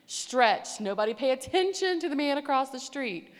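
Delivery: loud, emphatic group command; mock bossy order. Leader distracting the girls from the man, mock stern. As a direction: call out orders like a flustered leader.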